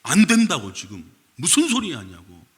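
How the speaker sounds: loud no, then a sharp retort; protesting. Retold or imitated. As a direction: push back hard at Jesus. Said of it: "예수님 붙잡고".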